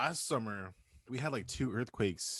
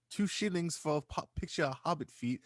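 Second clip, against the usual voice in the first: high hawker's cry, selling wares; old-timey merchant; 7 semitones higher than usual. Acted. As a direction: call it out like a market peddler. Hawking pictures, medieval vendor.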